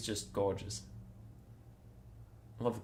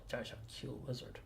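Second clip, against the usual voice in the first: overwhelmed by cuteness; 16 dB quieter than usual. Real, not acted. Gushing over lizard photos.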